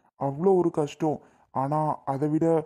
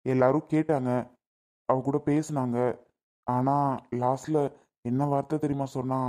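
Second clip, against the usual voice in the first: low, heavy-hearted telling; deeply emotional; 5 semitones lower than usual. Acted. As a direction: tell it slumped in hurt, voice sinking. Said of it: "நீ ரொம்ப feel பண்ணி பேசுறியேடா". (மனம் நொந்து, தாழ்ந்த குரலில்)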